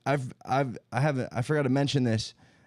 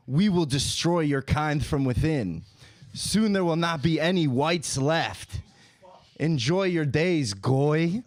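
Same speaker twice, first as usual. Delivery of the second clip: mock villain threat; slower than usual. Mock sinister threat to troll.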